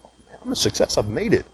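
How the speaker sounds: mock triumphant. Mocking his old self bragging about his success, mock triumphant. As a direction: play the self-satisfied big shot.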